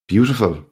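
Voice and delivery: BEAUTIFUL pitched high, then falling, with a pause after; lingering on BEAUTIFUL. A narrator's reading. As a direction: dwell on "Beautiful" and let it drop. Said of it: "pausing on the word".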